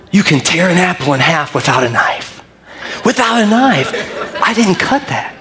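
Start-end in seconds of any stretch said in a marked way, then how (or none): 3.0-5.3 high, laughing disbelief; amused high emphasis. Real, not acted. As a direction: laugh at the surprise. Laughing at own discovery.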